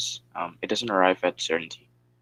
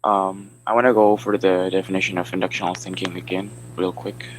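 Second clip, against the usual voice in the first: loud, projected presenting voice; speaking up; 6 dB louder than usual. Real, not acted. Student restarts the presentation after being asked, speaking louder. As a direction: project so the whole class hears. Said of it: "speak a little bit louder".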